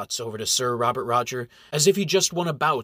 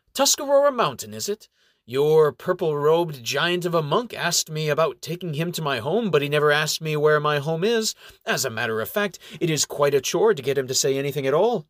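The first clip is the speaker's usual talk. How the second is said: put-on sly old elf; 3 semitones higher than usual. Elf bargaining from the tree.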